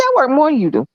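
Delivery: light, teasing comeback; joking. Retold or imitated. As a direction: show how harmlessly it was said. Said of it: "That's just how I said it".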